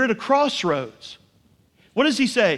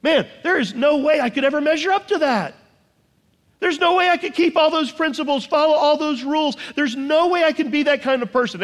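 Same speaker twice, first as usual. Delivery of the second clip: imitating a despairing believer; 5 semitones higher than usual. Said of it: "you quickly realize".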